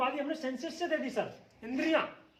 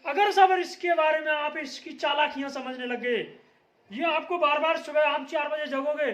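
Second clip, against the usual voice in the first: raised voice; 3 dB louder than usual. Real, not acted. Teacher raising voice to class.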